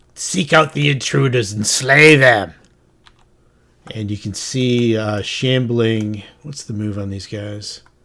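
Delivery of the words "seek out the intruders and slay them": small, dwarfish little alien creature voice. Describing an encounter, the speaker gives voice to the small, dwarfy alien creature. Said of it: "the voice of the small, um, dwarfy kind of alien creature".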